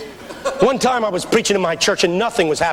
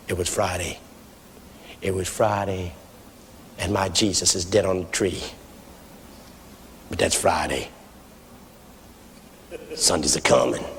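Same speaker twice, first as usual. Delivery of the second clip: very low, hushed sermon opening with long pauses; nice and soft preaching; 13 semitones lower, 8 dB quieter than usual. Retold or imitated. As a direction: imitate an old pastor starting softly and solemnly. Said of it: "Started nice and soft".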